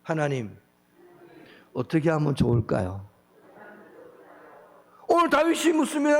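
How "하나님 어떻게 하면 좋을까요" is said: prayer to repeat. Shown as a demonstration. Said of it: "저를 따라 한번 해보시죠".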